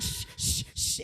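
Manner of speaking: whispered shush. Retold or imitated. Brother-in-law hushing the family, whispered. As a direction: hush everyone at once. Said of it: "my brother-in-law goes".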